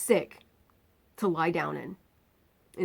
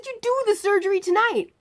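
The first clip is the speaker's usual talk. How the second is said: retold yell; 14 semitones higher, 5 dB louder than usual. Patient yelling at the surgeon, retold yell. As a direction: shout it, fed up.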